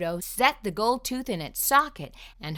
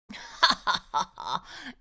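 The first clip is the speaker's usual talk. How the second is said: fox laugh. Acted. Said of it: "opened wide and laughed".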